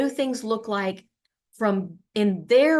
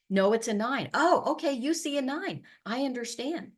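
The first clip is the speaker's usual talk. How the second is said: empathetic; 4 semitones higher than usual. Shown as a demonstration. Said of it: "repeating the individual's words".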